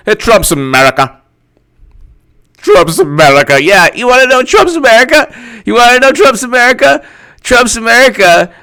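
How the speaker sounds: high, loud mock rant; crowing mock-outrage yell; hammed-up shouting. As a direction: shout it over the top, pitch climbing. Mock outburst on Trump's America.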